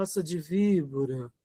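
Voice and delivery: tender, sugary, soft, sweet and gentle delivery. Saying the phrase "brood of vipers" in Portuguese: said sweetly. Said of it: "não falar assim, né? Raça de víbora, com doçura".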